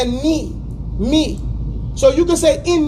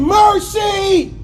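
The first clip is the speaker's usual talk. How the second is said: pleading cry; 4 semitones higher than usual. Shown as a demonstration. Teacher showing how a dua should sound. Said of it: "dua should be made with passion".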